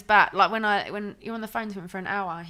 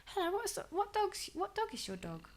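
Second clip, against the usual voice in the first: imitating Ben; 8 semitones higher than usual. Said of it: "he'll go".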